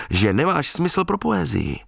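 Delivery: lightly hooted, pitch up. Retold or imitated. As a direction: tease her with a hoot. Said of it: "houkl jsem".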